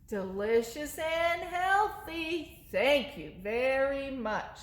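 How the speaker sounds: a hint of a sweet little monster, slow; light monster voice. Monster answers.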